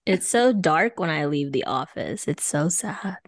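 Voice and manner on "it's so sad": whispered, deflated; a quiet whispered lament; sad whisper. Real, not acted. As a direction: breathe it out like a sigh of defeat. Sad about dark evenings.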